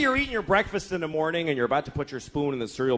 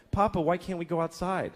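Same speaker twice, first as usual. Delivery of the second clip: put-on young daughter; 4 dB quieter than usual. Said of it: "this is my daughter the other day".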